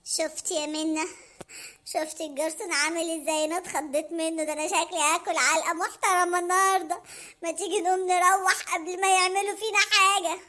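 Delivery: scared Hamada. Acted. Hamada afraid of the waiter, hushed and low. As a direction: whisper your fear to her.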